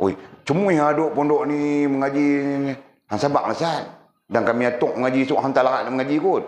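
a hint of a whining grumble, held high; complaining student. Students grumble to the Ustaz about studying here, mock complaint.

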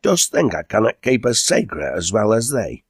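affronted, pitch lifted; indignant. Acted. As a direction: protest as if insulted. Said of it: "in an indignant tone".

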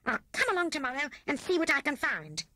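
high-pitched storybook rat voice; scheming Rat. A narrator's reading. Rat plans to visit the picnic and Wise Owl, scheming. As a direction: plot aloud in a high voice, stretching the last words.

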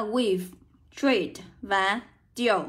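slow list of "weave", "treat", "deal", each with an ee sound; "treat" and "deal" drawn out slowly with ee; pronunciation demo. Shown as a demonstration. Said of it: "được đọc cho cô là âm ỉ".

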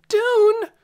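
high loud call across the field. A narrator's reading. Lena calling to Dune in the dark, shouting. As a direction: shout his name to find him. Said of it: "she called".

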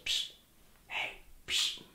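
whispered psst to get his attention. Retold or imitated. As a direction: hiss it through the bars. Cellmate secretly calling him over.

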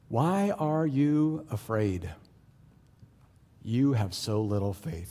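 slow, measured question; calm Jesus. Acted. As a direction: calmly question frightened followers, taking your time. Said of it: "proves to be the calmest person on the boat".

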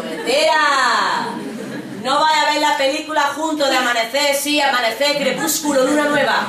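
loud mock scoffing; scoffing teacher. Teacher mocking a student's claim to cry, loud and scoffing.

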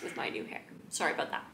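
soft whispered apology; breathy little aside. Real, not acted. Aside about viewfinder.

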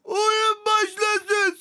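drawn-out, booming game-show opening; slow announcer call. Acted. Host announcing the start of the challenge, slow and booming.

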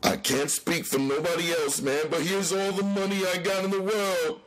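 high pleading moan; scared fat man pleading high. Acted. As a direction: beg in a high frightened voice. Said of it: "Tubby moaned".

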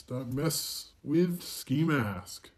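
slow, stretched redneck drawl; redneck accent. Pretend. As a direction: draw it out like a redneck.

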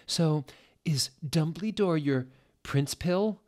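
high excited shout; shouted question. A narrator's reading. Narrator voicing girl shouting at teacher. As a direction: call it out high and eager. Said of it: "I shouted".

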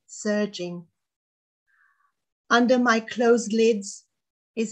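measured poem recital with pauses between lines; poetry reading. Acted. Poet reading her Nausicaa poem to an audience, measured recital. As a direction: read it as verse, pausing after each phrase. Reads own poem aloud.

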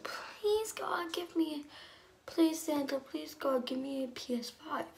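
high, breathy begging; pleading prayer. Retold or imitated. Girl on Christmas Eve begging God, high breathy plea. Praying for a PlayStation.

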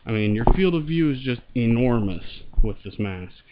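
muffled voice behind a mask; talking through a respirator; through a gas mask. Real, not acted. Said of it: "I'll throw it on here and show it, and I'll talk into the mic".

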